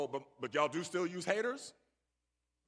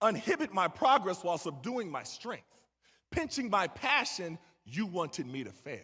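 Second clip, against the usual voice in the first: poem. Acted. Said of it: "So I'm gonna do that poem".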